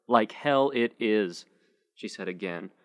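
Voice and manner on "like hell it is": slow, quivering and hurt; lip quivering. Acted. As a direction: drag it out, fighting tears. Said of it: "her lower lip quivering".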